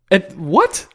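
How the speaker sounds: rising, puzzled query; baffled reaction. Retold or imitated. Viewer reacting to gibberish dialogue, baffled. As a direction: act out a viewer who missed it all. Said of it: "jeg sidder der og siger".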